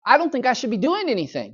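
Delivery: put-on whiny protesting kid, high and loud; Opie. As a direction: imitate a boy trying to be a brat. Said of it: "Opie tried to be a brat".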